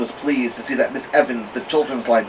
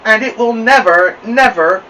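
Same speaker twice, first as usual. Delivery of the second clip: pleased with herself; 10 semitones higher, 8 dB louder than usual. Acted. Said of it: "pleased with herself".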